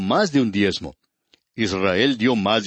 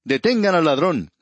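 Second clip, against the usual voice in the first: higher-pitched, half-hearted call of alarm; mild pretend shout; 5 semitones higher than usual. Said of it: "alguien desde adentro gritar". (grito fingido y contenido, en tono más agudo)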